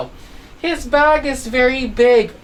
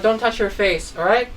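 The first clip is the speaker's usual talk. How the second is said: ordinary talk, nothing marked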